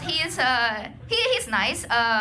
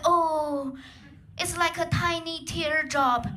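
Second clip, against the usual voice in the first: dreamy poetic; 2 semitones higher, slower than usual. Retold or imitated. Poetic Japanese word for drizzle.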